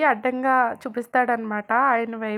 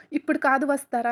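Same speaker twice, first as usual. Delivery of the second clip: mild mock shout, a bit raised; retold shout; 3 semitones higher, 4 dB louder than usual. Rishi to the woman holding his arm: mild mock shout. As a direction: snap it back at her, only half loud. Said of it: "అని గట్టిగా అరుస్తాడు".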